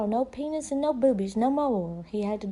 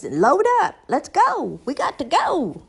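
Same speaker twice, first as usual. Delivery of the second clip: calling out; 3 semitones higher, 5 dB louder than usual. Retold or imitated. Mother hurrying kids to car.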